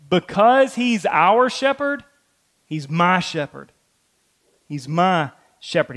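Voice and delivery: "my" pressed, falling; David's personal claim, "my" stressed. Retold or imitated. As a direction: lean on "my" in "he's my shepherd". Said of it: "David is saying".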